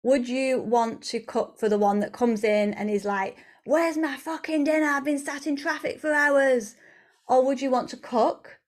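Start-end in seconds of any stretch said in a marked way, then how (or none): 3.6-6.8 higher-pitched mock gripe; demanding partner. Late partner comes in wanting dinner, cross demand.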